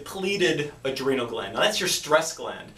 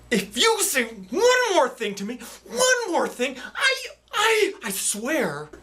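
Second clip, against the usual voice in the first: threat turning to laughter; 10 semitones higher, slower than usual. Acted. Skit, threatening then laughing.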